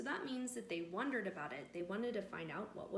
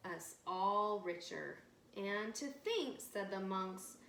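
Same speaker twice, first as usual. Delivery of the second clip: lively read-aloud with voiced villagers; storytelling to children. A narrator's reading. Narrator telling children a village tale, bright storytelling. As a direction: read it like a bedtime story for kids.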